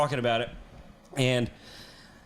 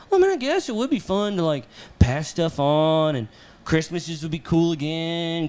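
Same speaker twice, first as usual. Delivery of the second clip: reluctant concession. Retold or imitated. Husband warming to having kids, reluctant concession. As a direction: give in bit by bit, stretching the words.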